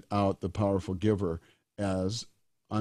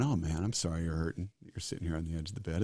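kind to himself; 3 semitones lower, 5 dB quieter, faster than usual. Retold or imitated. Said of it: "showing up with kindness".

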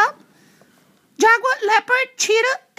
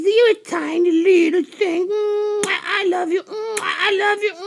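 cooing. Real, not acted. Host cooing love at a tiny animal, tender. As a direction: coo at it like a pet.

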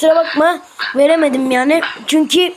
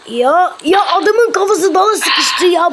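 laughing shout; 2 semitones higher than usual. Real, not acted. Character stuck, laughing outburst.

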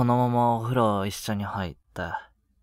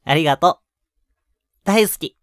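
much higher and louder, bursting with joy; delighted thanks; 6 semitones higher, 10 dB louder than usual. Acted. Boyfriend thanking his girlfriend for saying yes, delighted and much higher. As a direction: let the happiness spill over.

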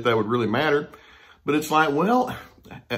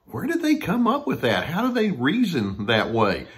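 incredulous; 4 semitones higher than usual. Retold or imitated. Incredulous imagined thought.

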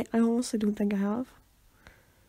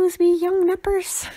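high, loud hammed-up old voice; hammed-up elderly grumble; mock old-timer; 9 semitones higher, 6 dB louder than usual. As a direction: croak it like a grumpy old-timer.

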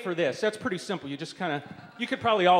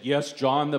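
lightly imitating a low-voiced preacher; a touch of low preacher authority; 3 semitones lower, 4 dB louder than usual. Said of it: "he had a very low voice".

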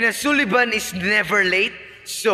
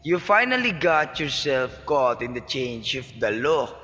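lower, sneering gloat; scornful mockery; 5 semitones lower than usual. Father sneers at his captured daughter, mocking. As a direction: savour her downfall.

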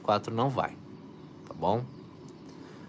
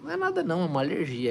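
dismissive high voice; 8 semitones higher, faster than usual. Retold or imitated. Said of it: "Eu falei".

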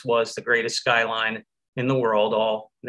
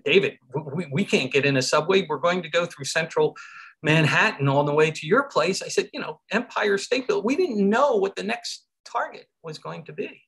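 retold anxious protest; 5 semitones higher than usual. Acted protest to his friend.

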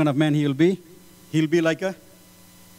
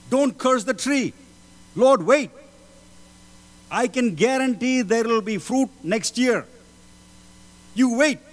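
pleading servant; 4 semitones higher than usual. Acted. Servant begging the Lord to spare the tree, raised pleading. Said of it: "his servants plead and say".

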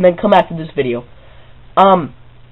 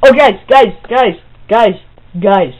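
excited calling; 3 semitones higher, 3 dB louder than usual. Real, not acted.

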